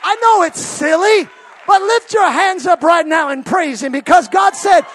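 loud, rising preacher's cry on "rivers"; full-force preaching. Acted. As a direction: preach it to the rafters. Rallying congregation to praise.

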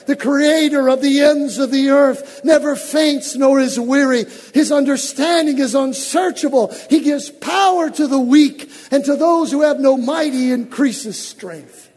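fervent sermon delivery; full-force preaching. Acted. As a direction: proclaim it over the congregation.

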